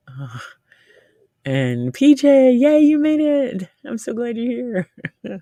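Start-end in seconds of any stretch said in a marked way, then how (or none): 1.9-5.4 light up to greet a friend; excited greeting. Real, not acted. Greeting a viewer who arrived.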